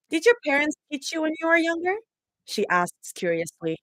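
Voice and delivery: reading a story aloud; story narration. Acted. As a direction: read it like a novel.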